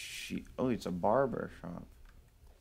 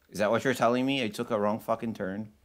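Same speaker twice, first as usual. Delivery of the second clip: incredulous; 2 semitones higher, 5 dB louder than usual. Real, not acted. Annoyed at game's wrong turn.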